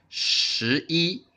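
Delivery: 十一 said high and clear for learners to copy; teacher models 十一 with clear Chinese tones; model Chinese number. Shown as a demonstration. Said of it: "I want you to imitate my intonation".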